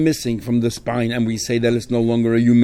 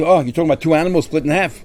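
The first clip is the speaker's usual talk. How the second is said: mildly mocking echo, pitched up; making fun; 4 semitones higher, faster than usual. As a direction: repeat it back with light disdain. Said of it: "He's making fun of us".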